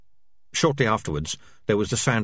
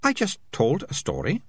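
calm; 8 semitones higher than usual. Acted. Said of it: "said Melicia calmly".

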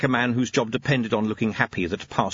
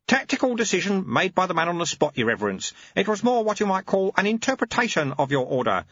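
put-on a lightly raised, dry old monk voice; wry, patient old teacher; knowing old monk, a little higher; old monk Lutze; 10 semitones higher than usual. Lutze explains.

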